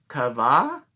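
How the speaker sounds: Ça va said the French way, sa-VA. Shown as a demonstration. Reading the glossary to kids, in French. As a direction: say "Ça va?" as French sa va, rising. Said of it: "And this is".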